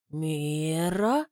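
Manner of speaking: «Мира?» low with a rising questioning end. A narrator's reading. Graham checks the name back, rising question. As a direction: repeat «Мира?» as a puzzled question. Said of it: "переспрашивает Грэм".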